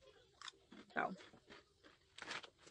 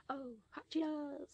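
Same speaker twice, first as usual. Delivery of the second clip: high voice; 6 semitones higher, 5 dB quieter than usual. Real, not acted. Savoring snack, high voice.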